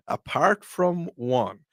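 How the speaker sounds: apart from one, drawn out slowly with a laugh; slow laughing repeat. Shown as a demonstration. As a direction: stretch it out, amused.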